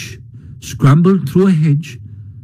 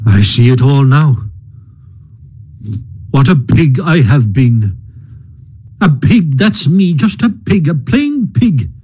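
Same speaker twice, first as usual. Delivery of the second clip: gloomy mutter. Acted. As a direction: mutter the regret to yourself. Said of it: "he muttered gloomily".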